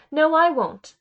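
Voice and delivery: loud, high, defiant refusal; a rude boy yelling his refusal at his teacher; defiant shout. Acted. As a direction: fling the no right back at the teacher.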